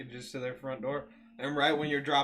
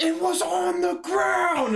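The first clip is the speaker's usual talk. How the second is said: very high, very loud, very slow shrill scream; 10 dB louder than usual. Retelling an argument with a customer over a wreath: imitating someone screaming. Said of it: "And I'm, like, screaming".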